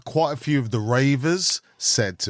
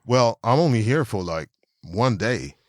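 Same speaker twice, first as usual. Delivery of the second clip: imitating the guy; 5 semitones lower than usual. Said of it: "He goes".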